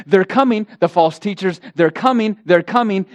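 urgent, repeated warning. Acted. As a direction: sound the alarm of what is approaching. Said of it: "Peter and Paul warned, they said".

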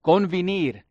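convenir said the Spanish way, rolled ending; Spanish word. Shown as a demonstration. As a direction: Convenir with Spanish vowels, kon-veh-NEER. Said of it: "I have to say it in Spanish".

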